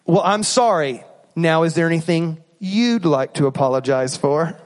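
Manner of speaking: smug sorry, then a pointed question; passive-aggressive apology. Shown as a demonstration. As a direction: turn the apology back on them. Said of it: "here's another one".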